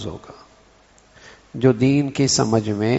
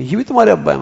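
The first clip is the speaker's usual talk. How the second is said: higher pitch, astonished lift on "تمہارے"; surprised; 4 semitones higher, much faster than usual. Shown as a demonstration. Amazed at how father and child differ, surprised. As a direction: marvel that this is the father. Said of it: "یا حیرت ہو رہی ہے".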